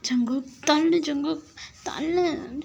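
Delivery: high, insistent push-away; angry. Acted. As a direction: demand space crossly. Acted struggle to push lover away.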